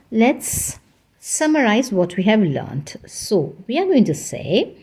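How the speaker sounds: whisper. Real, not acted. Whispered aside in lesson.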